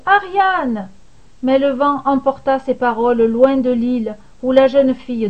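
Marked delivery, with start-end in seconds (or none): 0.1-0.9 desperate shout. A narrator's reading. Thésée calling Ariane from the drifting ship, a desperate shout. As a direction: hurl the name across the water. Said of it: "hurla-t-il".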